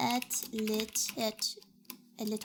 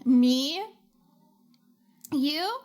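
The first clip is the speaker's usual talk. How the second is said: surprised; 2 semitones higher, 7 dB louder than usual. Real, not acted. Surprised reply to chat.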